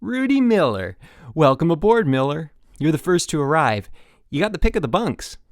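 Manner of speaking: high, loud eager counselor; bright bouncy counselor voice; peppy counselor. Acted. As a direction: pump up the new camper.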